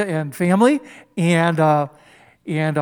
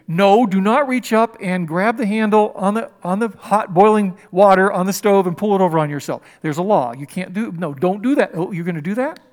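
firm mock scolding of a toddler; lightly voiced stern parent. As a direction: warn a toddler off the stove. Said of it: "where you go".

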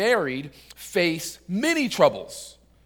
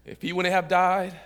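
slow, low reveal with long pauses; composed, deadpan punchline; 4 semitones lower, 3 dB quieter, slower than usual. Acted. Mourner finally explains his tears, composed and deadpan. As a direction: hold back, then drop the punchline quietly. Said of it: "composes himself, cleans himself up".

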